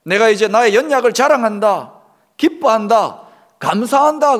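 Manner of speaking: preacher voicing Paul's confession at full volume; bold confession. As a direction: proclaim it like a triumphant confession. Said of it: "바울이 뭐라고 고백합니까".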